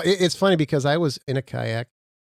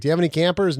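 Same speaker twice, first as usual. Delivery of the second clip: lightly acted customer, pitched up; eager shopper; 5 semitones higher, 3 dB louder, faster than usual. Shopper asking a store for campers, lightly acted eager customer. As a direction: play a hopeful shopper, voice lifted a bit.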